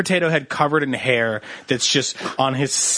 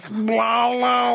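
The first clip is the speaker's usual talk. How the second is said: shouted blah, blah, a touch higher; mock shouted blah; 5 semitones higher than usual. Pajama-leg guy in a fake ad, mock shout. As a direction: bellow the blahs lazily. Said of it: "and he just goes".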